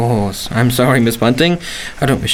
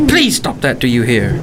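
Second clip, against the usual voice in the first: sharp rebuke. Acted. Lodger hears landlady humming.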